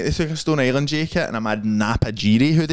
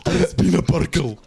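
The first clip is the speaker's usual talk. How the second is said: high, giggly "burgle"; laughing mock-Scottish; 10 semitones higher than usual. Mates riffing on the hard word, laughing and high.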